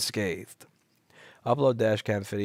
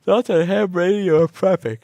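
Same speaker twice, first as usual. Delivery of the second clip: read-out question; 9 semitones higher, 11 dB louder than usual. Real, not acted. Reading a chat question.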